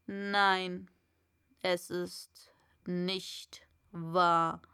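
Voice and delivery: slow, low whispered denial; whispering caterpillar. A narrator's reading. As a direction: breathe the contradiction out slowly. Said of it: "sagte die Raupe".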